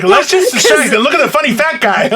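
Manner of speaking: mocking the hosts scheming to distract viewers; mock conspirator. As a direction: ham up the sneaky plotting. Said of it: "We're just like".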